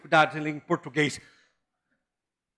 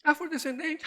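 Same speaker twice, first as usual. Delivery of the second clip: higher, softer, ironic 'Afrodescendente' with a rising tune; mocking correction; 9 semitones higher, 5 dB quieter than usual. Shown as a demonstration. Pastor ironically repeats the polite term 'Afrodescendente'. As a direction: lift 'Afrodescendente' into a teasing, questioning tone. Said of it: "A gente não pode falar preto nem negão".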